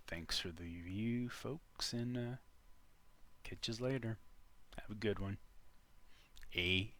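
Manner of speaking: lightly put-on Newfoundland accent. Vlogger signing off to viewers, mock Newfoundland accent. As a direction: sign off with a hint of mock Newfoundlander. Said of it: "we don't all talk like this".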